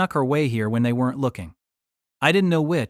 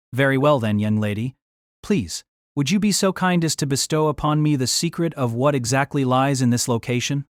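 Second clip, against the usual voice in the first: mock-courtly, overly formal request; insincere politeness. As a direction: lay on the courtesy without meaning it. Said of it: "You don't sound very sincere".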